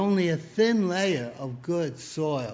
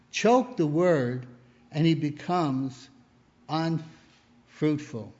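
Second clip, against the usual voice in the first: scripture reading. Acted. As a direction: lean into each phrase of scripture. Reads scripture aloud.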